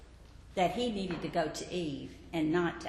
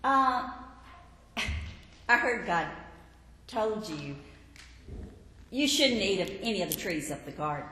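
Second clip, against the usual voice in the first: sly serpent. Acted. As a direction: coax her like a scheming snake. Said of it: "the serpent says to Eve".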